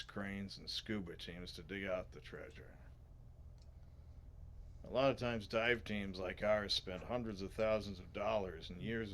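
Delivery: lightly voiced gravelly adventurer; Indiana Jones. Salvage leader recounts years of digging, lightly gravelly hero voice. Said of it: "I'm too gravelly".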